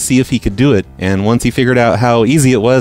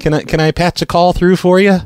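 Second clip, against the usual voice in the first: higher, chirpy phone operator voice; prank caller voice; 8 semitones higher than usual. Acted. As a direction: play a cheerful phone company rep.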